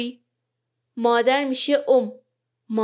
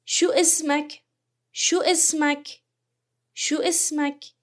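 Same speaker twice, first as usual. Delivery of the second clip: Gulf Arabic شو اسمک said higher, "shu ismak"; 4 semitones higher than usual. Shown as a demonstration. Teacher modelling Gulf Arabic شو اسمک to a man, higher.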